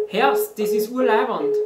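high, loud and thrilled; excited. Shown as a demonstration. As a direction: cheer it out like a fan. Enthusiastic slang example.

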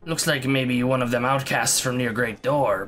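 rasping ghoul, broken speech; croaky ghoul voice. Acted. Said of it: "Doing croaky ghoul voices".

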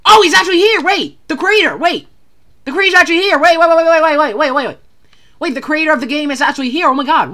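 high, loud excited discovery; can't believe who just showed up. Real, not acted. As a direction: fan spotting the game's creator, high excited wait wait. Spots game creator.

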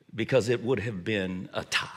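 soft whispered confidence; whispered aside. Real, not acted. Father telling listeners his love is equal, whisper. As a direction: let it slip out in a whisper. Tender aside about loving kids.

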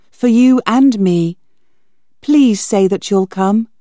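put-on girl urging B Z to the dance, pleading. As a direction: beg him to come.

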